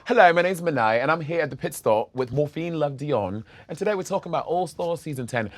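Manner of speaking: light mock British accent. Shown as a demonstration. Host showing guest how the British talk, light British accent. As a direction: have a go at British, loosely. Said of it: "that's how they talk".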